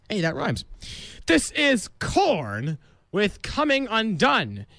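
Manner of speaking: smooth station announcer delivery; radio DJ read. Acted. Host announces the next song on his radio show. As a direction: sell the station ID.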